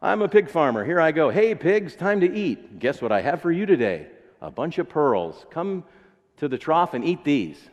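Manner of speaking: mock farmer calling out to pigs, bright and cheery. Preacher playing a farmer calling pigs, cheerful. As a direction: call the pigs in like a proud farmer. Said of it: "think of the image".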